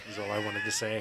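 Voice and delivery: words squeezed out through a laugh. Real, not acted. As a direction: laugh while finishing the sentence. Laughing at own remark.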